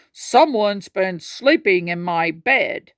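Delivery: slow, lightly gruff Papa Bear; slow and heavy, a hint of gruff; lightly voiced big bear; deep gruff voice. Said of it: "in his unusual deep, gruff voice".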